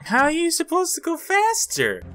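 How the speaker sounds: shrieking in frustration; frustrated high yell. Real, not acted. Frustrated at game.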